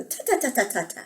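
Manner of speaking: soft, staccato monkey noises; quiet storybook monkey chitter; monkey chatter. Acted. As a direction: imitate mocking monkeys in little repeated syllables. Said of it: "So monkeys go".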